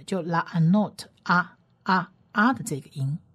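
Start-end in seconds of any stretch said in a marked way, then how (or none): 1.2-2.1 "啊" cut very short, said twice; two brief, separate "啊" sounds; short vowel. Shown as a demonstration. Teacher demonstrates the short vowel under ayin, brief "啊". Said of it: "声音是蛮短促的".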